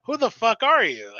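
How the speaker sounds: high, indignant challenge; imitated angry confrontation. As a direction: confront a stranger as the outraged girlfriend. Acting out girlfriend confronting stranger.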